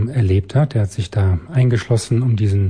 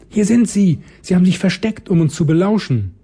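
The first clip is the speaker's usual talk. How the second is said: triumphant ghost shriek; 8 semitones higher than usual. A narrator's reading. Ghost finds the hidden children.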